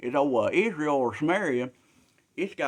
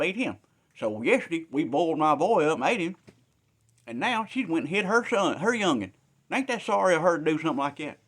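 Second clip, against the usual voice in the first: put-on complaining old woman; 4 semitones higher, 4 dB louder than usual.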